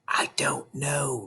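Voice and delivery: soft hushed whisper; a nervous child's whisper. A narrator's reading. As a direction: breathe it, barely voiced. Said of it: "Matilda whispered back".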